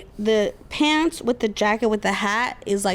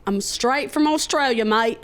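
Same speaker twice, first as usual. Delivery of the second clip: bad Australian accent. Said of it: "not Australia".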